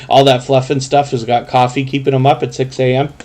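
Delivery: sleepy, stifling a yawn. Real, not acted. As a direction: talk through a half yawn. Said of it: "I'm almost yawning there too".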